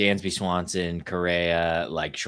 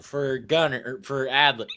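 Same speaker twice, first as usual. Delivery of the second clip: hiccups; 4 semitones higher than usual. Real, not acted. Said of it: "Did you just squeak?".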